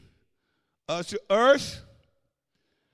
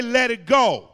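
said with conviction. Real, not acted. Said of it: "say it like you know you mean it".

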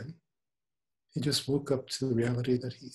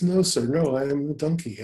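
put-on protesting young lion; 3 semitones higher, 5 dB louder than usual. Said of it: "He says".

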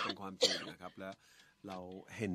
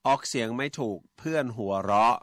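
1 reading a listener's question; 3 semitones higher, 10 dB louder than usual. Acted. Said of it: "คุณนัทชิตาครับ".

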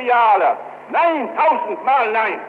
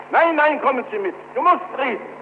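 sharp raised insisting; urgent shout; 5 semitones higher than usual. Retold or imitated. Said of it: "Fünfzig Menschen schrien zugleich".

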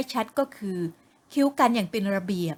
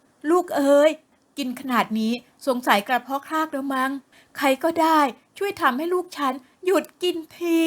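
exasperated mother; 4 semitones higher than usual. Acted. Mother pleads for someone to stop her daughter, exasperated. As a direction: throw up your hands, half joking.

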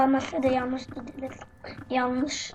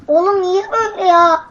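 startled cry; 6 semitones higher, 8 dB louder than usual. Real, not acted. Startled by a monster in game.

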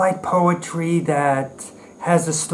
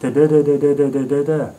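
mock slam beat on nonsense syllables; slam poetry cadence; 3 dB louder, faster than usual. Critic imagining Jungle Books as slam poetry, mock cadence. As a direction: lightly parody a slam poet's rhythm. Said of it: "would never work as slam poetry".

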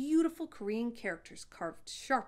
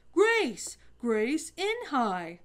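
loud, much higher shout, the second part slow; a boy excitedly shouting the name's meaning; 6 semitones higher, 9 dB louder, much slower than usual. A narrator's reading. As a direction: call it out with excitement. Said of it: "shouted Ralph".

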